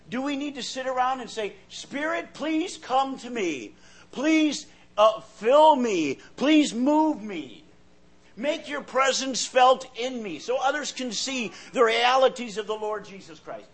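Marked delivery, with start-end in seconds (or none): 1.7-13.7 slow, pleading "please" pushed louder; mock begging prayer. Preacher mocking a desperate begging prayer, slow and pleading. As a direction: beg the Spirit to come, hammed up. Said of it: "You don't need to pray that way".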